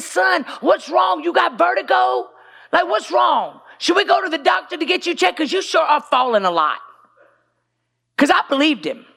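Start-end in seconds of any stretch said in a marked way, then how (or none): 0.0-6.8 raised, worried voice pressing her son. Retold or imitated. Mother questioning son, worried.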